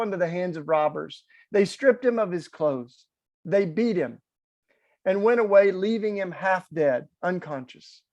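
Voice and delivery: measured, solemn Bible reading to the congregation; scripture reading. Acted. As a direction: read it like a parable, unhurried. Reading the Good Samaritan scripture.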